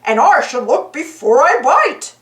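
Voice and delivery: dopey cartoon dog voice, mildly scolding; goofy sidekick lecturing a frog. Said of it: "Goofy said".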